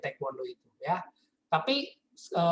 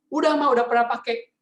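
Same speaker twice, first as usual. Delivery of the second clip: innocent son admitting; 5 semitones higher, 6 dB louder than usual. Retold or imitated.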